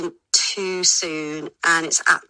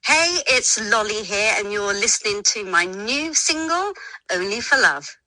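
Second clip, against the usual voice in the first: radio intro. Shown as a demonstration. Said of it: "introduce it?".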